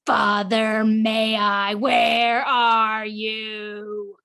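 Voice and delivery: lightly voiced demon, menacing; a hint of a gloating demon; demonic voice. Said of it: "returning to a demonic voice".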